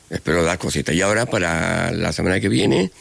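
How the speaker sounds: blocked nose from a cold; stuffy nose. Real, not acted. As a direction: talk through a head cold. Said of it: "es que estoy constipado".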